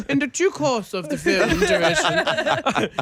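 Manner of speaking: high, slow put-on formal voice; hammed-up posh formality; mock professional. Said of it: "trying to make it real profesh".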